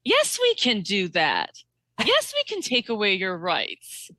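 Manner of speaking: slow, drawn-out mock politician; a hint of slurred speech-making; politician impression. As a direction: lightly imitate her, stretching each phrase.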